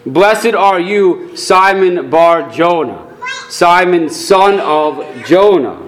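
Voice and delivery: slow, deliberate benediction; solemn blessing. Acted. Jesus blesses Peter by name, slow and solemn. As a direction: bestow the blessing slowly. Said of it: "Jesus will turn around and confess".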